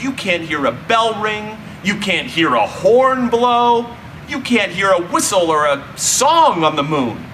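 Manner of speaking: usual speaking voice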